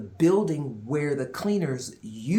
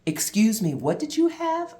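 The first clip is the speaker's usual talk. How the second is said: excited staff; 7 semitones higher, 5 dB louder than usual. Retold or imitated. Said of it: "they're like".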